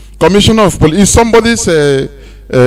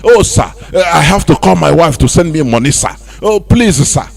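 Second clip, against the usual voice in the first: mock pleading. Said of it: "you go to beg".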